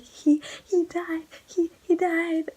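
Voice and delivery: high, loud, halting wail; mock crying. Tearful reader telling mom of a character's death, mock crying. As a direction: imitate sobbing out the news, stammering and drawn out. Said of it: "Why are you crying?".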